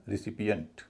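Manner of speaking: "रिसिपिएंट" as ri-SI-pi-ent; light "ri" opening. Shown as a demonstration. Teacher models the correct word, "रिसिपिएंट" opening on ri. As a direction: start "रिसिपिएंट" with ri, never re. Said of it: "रे ना होके री होगा".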